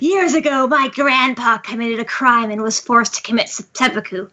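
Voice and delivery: lightly hammed-up villain telling his backstory; villain monologue. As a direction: monologue theatrically as a wronged villain. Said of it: "basically monologuing here".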